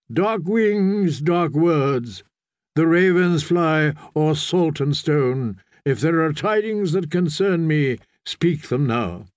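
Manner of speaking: lightly voiced priest, measured and deliberate; stern prophet. Priest demands tidings from riders, lightly voiced and stern.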